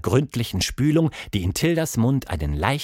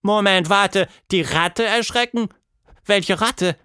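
put-on high girl's voice, startled questioning; taken-aback young heroine; 10 semitones higher, 3 dB louder than usual. Girl halts the monster's plan, startled and high. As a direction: cut in, pitched up and puzzled.

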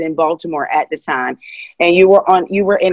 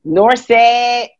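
higher-pitched Pittsburgh "North Side"; Pittsburgh accent; 5 semitones higher, 4 dB louder than usual. Shown as a demonstration. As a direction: show off the Pittsburgh way of saying it. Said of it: "talking like that".

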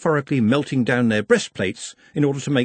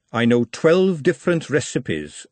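smug; 2 semitones higher than usual. Acted. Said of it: "in a moment of rare smugness".

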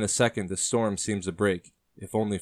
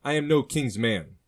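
louder, higher blunt denial, stress on no; peaceful but blunt; 6 semitones higher, 4 dB louder than usual. Acted. John denies serving the king, calm and blunt. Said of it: "John said peacefully but bluntly".

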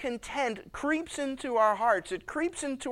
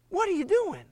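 much higher, pleading disbelief; higher echo of disbelief; high incredulous disbelief; 10 semitones higher, 3 dB louder than usual. Acted. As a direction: ask in stunned dismay. Repeats God's question, stronger.

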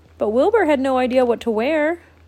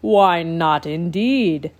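regal proclamation; 4 dB louder, slower than usual. Acted. Grandpa proclaiming.

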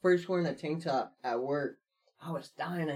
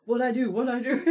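tag; 7 semitones higher, 5 dB louder than usual. Retold or imitated. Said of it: "I'm freaking out".

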